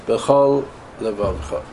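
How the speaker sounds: B'chol Levavcha slow, with a break between the lameds; slow demonstration. Shown as a demonstration. Rabbi demonstrating a gap to students, slow and careful. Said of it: "No good".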